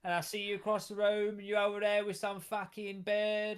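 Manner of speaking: slightly weepy Cockney impression; a touch of fake crying; mock tearful Alfred. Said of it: "he's just crying all day".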